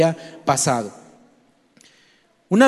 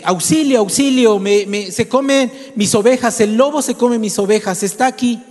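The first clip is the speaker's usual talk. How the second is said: high-pitched, mildly raised alarm call; mock cry for help; 4 semitones higher than usual. Bored shepherd boy tricks the neighbours, mock cry for help. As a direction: call out for rescue, half-shouting. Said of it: "gritó".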